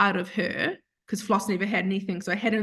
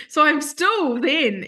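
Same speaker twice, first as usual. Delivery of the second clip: laughing; 5 semitones higher, 4 dB louder, slower than usual. Real, not acted. Laughing at own scepticism.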